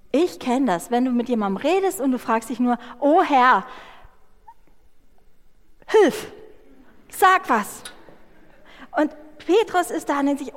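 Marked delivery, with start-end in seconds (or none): 3.0-7.8 higher, louder, pleading urgently; desperate plea. Acted. A preacher stuck mid-conversation silently begs the Lord for words, desperate. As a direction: beg God for words.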